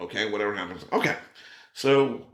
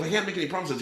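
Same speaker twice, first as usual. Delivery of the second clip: lightly voiced Tom; 9 semitones higher, much faster than usual. Quoting Tom, pitch up.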